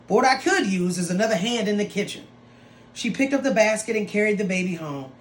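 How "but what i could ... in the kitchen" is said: quick, greedy stepmother voice, a touch put-on; scheming foster mother. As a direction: rattle it off like a scheming old woman. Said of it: "Crooked foster mother said".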